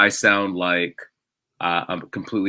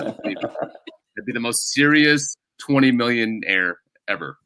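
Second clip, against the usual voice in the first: mock serious; much slower than usual.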